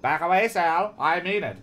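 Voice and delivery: acted forceful threat; warning. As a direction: warn him off at gunpoint. Garland threatens with raised rifle.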